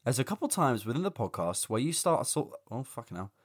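tired, hungover reading. Real, not acted. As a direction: read it through a hangover. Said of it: "I'm so hungover".

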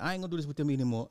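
fast, mock-tearful rant; imitating crying old man. Retelling the sad Dallas fan, quick mock sobbing. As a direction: rattle it off like a weepy old fan. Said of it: "this man was legitimate crying".

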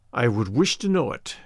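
low, grim and measured; a lightly voiced grim demand. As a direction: prisoner grimly demanding his captor's name.

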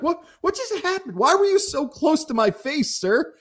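high-pitched, incredulous questioning; mock bewilderment. Baffled man to the close-up stranger, high incredulous protest. His baffled reaction, retold.

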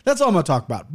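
barely opening the mouth; talking with mouth closed. Real, not acted. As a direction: speak through a stiff, sore jaw. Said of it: "I can't open my mouth much".

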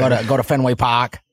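put-on low-key Boston accent, "Park" as "Pahk"; lightly put-on Boston accent. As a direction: drop the R like a Bostonian. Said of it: "get a Boston one from you".

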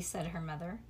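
usual speaking voice

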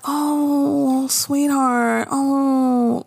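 high, cooing mock comfort; mock sympathy. Friends consoling Joan, with high cooing mock sympathy. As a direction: coo at her like a hurt child. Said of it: "they're all like".

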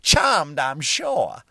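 mock twenties lady. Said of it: "a girl in the twenties".

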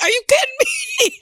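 very high, laughing "are you kidding me"; laughing disbelief. Retold or imitated. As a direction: squeal it out through a laugh. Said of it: "I'm like".

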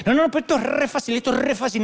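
pushy salesman. Retold or imitated. Recruiter on the phone insisting to Dante, fast mock pitch. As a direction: rush the hard sell. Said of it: "me llamaba uno".

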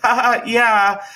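high, slow fake chuckle; forced ha-ha, drawn out; laughing it off. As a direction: imitate an awkward brush-off laugh. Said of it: "like, laughing it off, trying to".

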